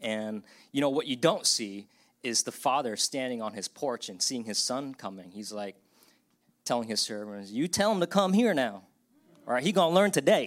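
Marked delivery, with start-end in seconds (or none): 7.5-10.5 put-on Southern accent creeping in, loud and high. Acting out a father telling his servants about his son, southern accent. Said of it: "my voice went southern there".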